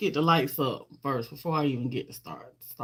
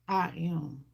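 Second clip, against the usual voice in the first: normal talking voice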